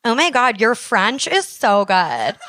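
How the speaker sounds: drawn-out English-speaking friend's gush; mock an anglophone fan, stretching the English. Anglophone friend messaging from the stands, slow English gush. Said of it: "une amie anglophone dans les estrades".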